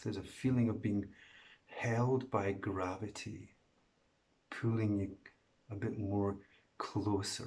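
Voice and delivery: soft, calm meditation voice, long pauses; hushed, unhurried meditation guide; guided meditation. Real, not acted. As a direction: ease them gently into letting go.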